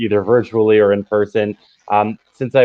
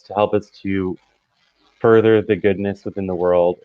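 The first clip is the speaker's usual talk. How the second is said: calm, steady prayer voice; 2 semitones lower than usual. Acted. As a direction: pray it earnestly and evenly. Opening prayer to God.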